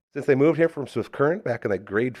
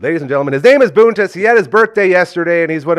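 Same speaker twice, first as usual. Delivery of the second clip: announcer voice; 6 semitones higher, 8 dB louder than usual. Acted. Announcing guest like ring announcer.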